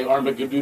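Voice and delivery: "Armageddon" garbled into "Armagoo-doo" with a questioning rise; mock fumble of "Armageddon" as Armagoo-doo; mispronounced word. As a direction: say "Armageddon" low, with a doo-doo ending. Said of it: "didn't know how to say".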